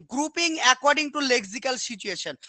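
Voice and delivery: very slow, word by word dictation; slow dictating teacher. Shown as a demonstration. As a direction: spell it out slowly for the students to copy. Teacher reading definition aloud.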